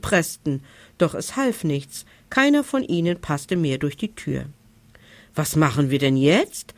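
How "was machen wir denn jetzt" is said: a mild, understated note of despair, voice dipping low. Acted. Monsters asking each other what now, mildly despairing. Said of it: "fragten die Monster verzweifelt".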